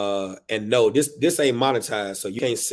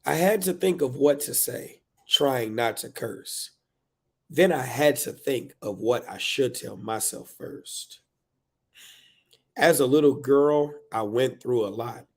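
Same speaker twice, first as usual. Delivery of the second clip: slow verse, higher at phrase starts; reflective poem reading; 3 semitones higher than usual. Acted. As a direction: weigh each line as you read. Performs book's verse.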